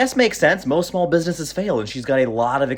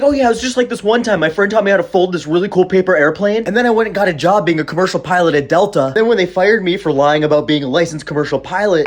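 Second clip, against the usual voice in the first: ditzy excuse; 5 dB louder than usual. Retold or imitated. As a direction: ham up a clueless liar talking fast. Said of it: "I was gonna be like".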